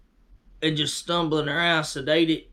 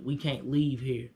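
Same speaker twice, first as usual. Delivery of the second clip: lifeless; 3 semitones lower, 6 dB quieter than usual. Shown as a demonstration. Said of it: "That's how they said it".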